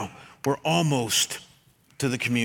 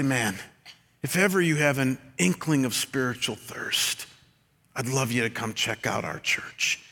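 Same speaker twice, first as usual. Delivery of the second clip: tender; 2 semitones lower than usual. Shown as a demonstration. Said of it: "in the most tender way".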